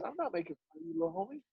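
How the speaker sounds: acted-out soothing of a touchy kid; reassuring mentor. Mentor calming a kid who bowed up, gently reassuring.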